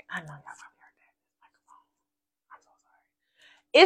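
hushed unvoiced whisper; whispered apology; whispered aside. Real, not acted. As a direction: drop to a whisper, embarrassed. Whispering after a burp.

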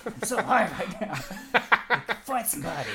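mock stoner, high and laughing; hammed-up high guy, giggling.

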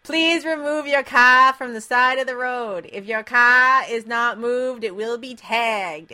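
put-on slow Boston accent. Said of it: "this is me doing my Boston accent".

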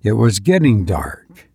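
measured, even storytelling read; story narration. A narrator's reading. Podcast host reading a horror story to listeners, measured narration. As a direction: draw listeners into a creepy tale. Reads Lovecraft story aloud.

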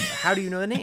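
lightly voiced teen girl; mimicking girl's voice. Retold Abby voice.

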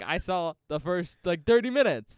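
high, loud mocking imitation; Bob. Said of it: "Bob was like".

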